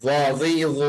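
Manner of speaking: ওয়াজিজ as a soft, thick, heavy z sound; heavy rounded z in ওয়াজিজ; soft but thick. Shown as a demonstration. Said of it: "কিন্তু একটু মোটা হবে".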